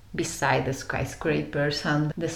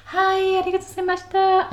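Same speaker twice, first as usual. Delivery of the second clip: high, fast, sing-song Japanese greeting; bright, rapid bowing greeting; imitating lift attendant; 13 semitones higher, 5 dB louder, much faster than usual. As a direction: chirp it like a polite lift attendant. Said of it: "she had to greet the people like".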